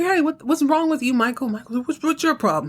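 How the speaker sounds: mild mock outrage, pitched high; a hint of a kid yelling at a classmate; angry kid. Kid yelling after his painting is ruined.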